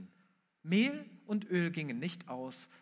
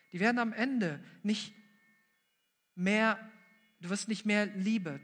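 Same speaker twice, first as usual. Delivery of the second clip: rising emphasis; 3 semitones higher, 4 dB louder than usual. Shown as a demonstration. Repeated phrase, building.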